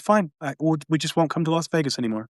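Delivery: quick, quiet, mildly hammed-up courtesy; mock politeness. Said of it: "that person being very polite".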